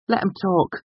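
high-pitched, faintly defiant mutter; defiant mumble. A narrator's reading. Prentice answering Carter, mumbled defiance. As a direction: mumble back with a hint of defiance. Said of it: "he mumbled with a hint of defiance".

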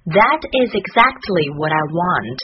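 "That is exactly what I want" run together smoothly; linked-up sentence. Shown as a demonstration. Teacher joining the drilled words, "That is exactly what I want" connected. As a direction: link "That is exactly what I want" without gaps. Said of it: "我们连起来说一遍".

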